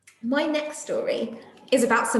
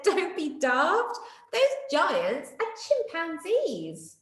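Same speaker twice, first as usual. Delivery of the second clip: slow, higher teasing retort; mock laughing; 7 semitones higher, much slower than usual. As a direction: chuckle at the mistake. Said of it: "Day Monkey laughed and said".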